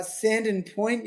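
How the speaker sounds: "Sandon Point" said slowly, with a weak "-dən" ending; corrected pronunciation. Shown as a demonstration. Host correcting surfer's place name, slow "Sandon Point" with weak "-dən". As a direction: correct them with a slow "Sandon Point", second syllable reduced. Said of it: "did I have it wrong?".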